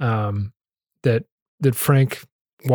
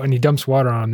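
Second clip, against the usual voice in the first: usual speaking voice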